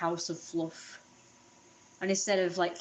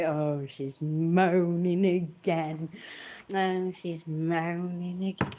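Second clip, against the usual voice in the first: imitating mum; 2 semitones lower, much slower than usual. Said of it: "voice recording of my mum when she was like".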